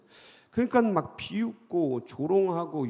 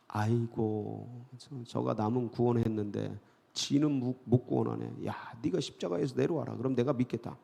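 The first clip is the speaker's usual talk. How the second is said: mocking sneer; 4 semitones lower, 5 dB quieter than usual. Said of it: "비웃어 이르되".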